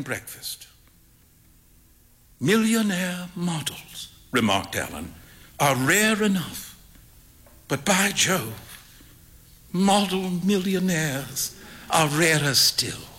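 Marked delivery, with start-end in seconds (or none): 2.4-13.1 slow, savoured punchline; a hint of the dry painter delivering the moral; Alan's witty remark. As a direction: relish the closing quip. Alan voiced in story.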